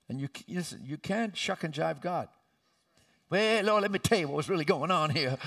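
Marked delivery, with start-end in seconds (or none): 3.3-5.4 wheedling excuse starting high and loud, then breaking into laughter; laughing mock excuse. Making excuses to the Lord, mock pleading with laughter.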